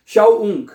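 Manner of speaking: "शाओउंग" as shau-ung, the u sounded twice; teacher separating shau and ung in "शाओउंग"; double U. Shown as a demonstration. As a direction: let a second u follow the glide in "शाओउंग". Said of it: "दो दफा ऊ करना है".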